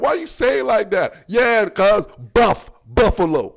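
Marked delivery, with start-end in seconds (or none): 0.0-1.2 higher-pitched mock hater; complaining hater. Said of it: "I be having haters. They be like". 2.3-3.5 punchy African-accented "buff, Buffalo". Shown as a demonstration. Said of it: "That's what I'm finna say".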